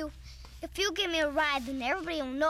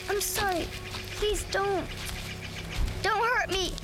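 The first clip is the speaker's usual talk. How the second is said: pleading, rising higher and higher; whimpering plea climbing in pitch; begging in fear; 4 semitones higher, slower than usual. Acted. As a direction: beg not to be hurt. Boy begging not to be hurt.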